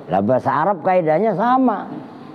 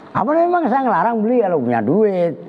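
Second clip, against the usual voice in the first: indignant retort; 5 semitones higher, faster than usual. Retold or imitated. Teacher retorts in a retold exchange.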